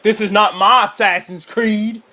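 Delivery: slow, mocking whine of a pissy gamer. Pissy gamers objecting to the movie, mock indignation. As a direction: draw out a mock fan complaint. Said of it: "gamers who were pissy".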